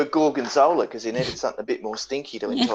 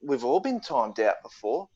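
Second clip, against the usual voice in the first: slow chorus reply; slower than usual. Pretend. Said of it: "everyone can go".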